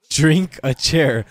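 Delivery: put-on loud, slow Spanish-accented English; mock a Spanish accent, drawn out and loud; imitated Spanish accent. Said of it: "Like this with the accent".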